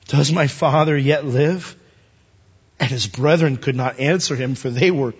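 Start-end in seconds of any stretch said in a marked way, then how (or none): 0.1-1.8 slow, solemn scripture reading; measured question. Acted. Joseph asks his brothers after his father, slow and measured. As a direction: ask it slowly, word by word.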